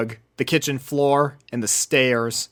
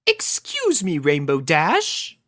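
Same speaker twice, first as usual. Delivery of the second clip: polite Rarity; 5 semitones higher, slower than usual. Acted. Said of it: "continued Rarity".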